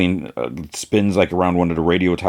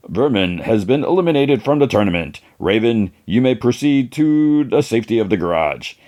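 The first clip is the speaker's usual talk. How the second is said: a hint of tournament announcer; lightly voiced announcer; 3 semitones higher than usual. Announcer declares a contestant eliminated, lightly mock-official. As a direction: announce it with slightly lifted pitch. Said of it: "an announcer's like".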